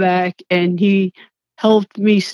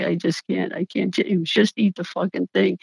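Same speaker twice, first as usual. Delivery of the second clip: defeated; 8 dB quieter than usual. Retold or imitated. Giving up, pleading with James.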